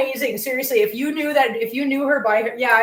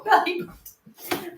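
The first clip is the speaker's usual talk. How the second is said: slow, high, drawn-out belly button; scolding the cat; 6 semitones higher, much slower than usual. Real, not acted.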